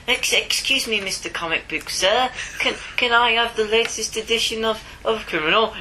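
badly faked Canadian accent, polite and timid; a shy Canadian customer asking for a comic in a mock Canadian accent. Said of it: "that did not sound anything like a Canadian accent".

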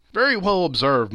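loud, high exclamation of approval; delighted cry. Acted. Bob applauds his son's remark, delighted cry. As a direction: praise heartily, voice lifted. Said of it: "cried Bob".

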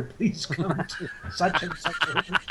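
laughing through the announcement. Retold or imitated. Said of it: "I could not stop laughing".

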